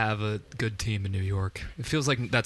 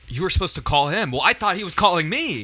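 mock player voice; 9 semitones higher, 3 dB louder than usual. Player mocking a teammate mix-up.

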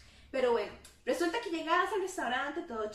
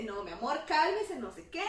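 soothing dad; 2 semitones lower than usual. Retold or imitated. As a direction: gently hush an upset daughter. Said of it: "tu papá te dice".

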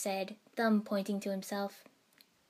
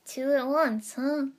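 surprised; 5 semitones higher, 7 dB louder, slower than usual. Acted. Chunin greets arriving team.

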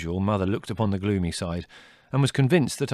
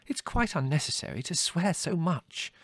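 mild reproof; 8 semitones higher than usual. Acted. Mother reproving son.

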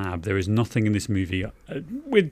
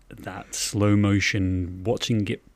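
savoring; slower than usual. Acted. Savoring the hair scene.

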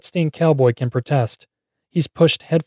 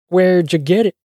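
higher-pitched, pointed question with a rising end; demanding question; 6 semitones higher, 4 dB louder than usual. A narrator's reading. Thug asking about the gold bar, demanding question. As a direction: press for an answer. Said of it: "asks the man dressed in a weathered denim jacket".

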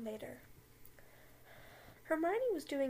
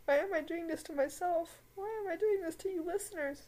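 high laughing wail of despair; laugh-cry at the cringe; cringing laughter; 7 semitones higher than usual. Real, not acted. Reader cringing at the fanfic to listeners, high laughing wail.

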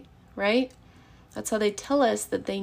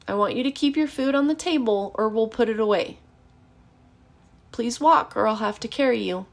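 matter-of-fact. Shown as a demonstration. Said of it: "state the limit in a matter-of-fact tone".

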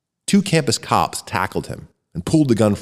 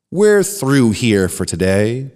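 announcing; 2 semitones higher, 3 dB louder, slower than usual. Acted. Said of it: "Bernard announced".

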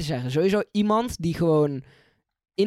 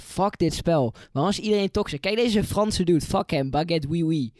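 mock rage; 4 dB louder than usual. Retelling own raging self.

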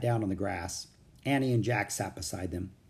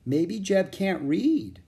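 slow, higher, kindly suggestion; drawn-out kind child's voice; 8 semitones higher, 4 dB louder, slower than usual. A narrator's reading. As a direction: offer it kindly, taking your time. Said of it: "Will said in a kind voice".

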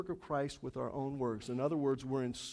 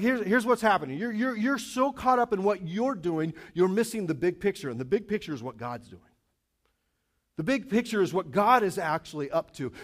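urgent apostle; 3 semitones higher, 4 dB louder than usual. Retold or imitated. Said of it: "He's like".

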